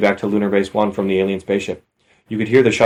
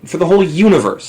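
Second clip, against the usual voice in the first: disbelieving; 8 semitones higher, 3 dB louder than usual. Real, not acted. Disbelief at ship count.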